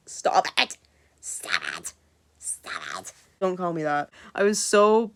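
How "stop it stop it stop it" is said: whispered stop it, dying away; flustered fading plea. Retold or imitated.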